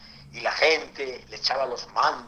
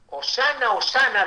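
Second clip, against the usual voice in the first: higher, louder hosana shout; crowd cheering; 10 semitones higher, 6 dB louder than usual. Retold or imitated. Preacher voices the crowd praising the Messiah, cheering. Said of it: "La gente que decía".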